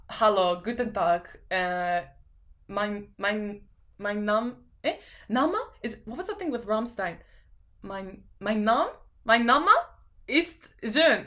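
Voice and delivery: a halting mock German greeting. Streamer mocking German she can't speak. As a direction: fumble through fake German phrases. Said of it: "I can't even speak German".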